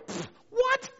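high shouted scoffing what; mock disbelief. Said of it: "look at and go".

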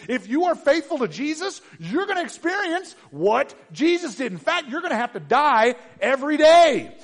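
impassioned pulpit preaching; full-force preaching. Acted. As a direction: drive it home to the congregation with fire.

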